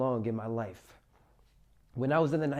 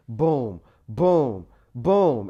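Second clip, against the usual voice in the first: loud booms for each blow; imitated punches; 8 dB louder, much slower than usual. Retelling a beating blow by blow, loud imitated thuds. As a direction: punch out each boom, falling in tone. Acts out repeated blows to face.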